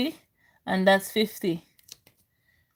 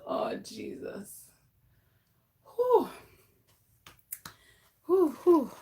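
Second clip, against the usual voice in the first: much softer, slow, drained; drained soft sigh of relief; weak sigh; 5 dB quieter, slower than usual. Real, not acted. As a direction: let it fall out, spent. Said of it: "even though I'm still weak".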